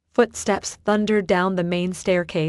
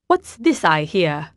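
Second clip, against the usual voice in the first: slow, mock-booming entrance; 3 dB louder than usual. A narrator's reading. Theodore arriving at the library, booming. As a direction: boom it out from the doorway. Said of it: "he boomed from the doorway".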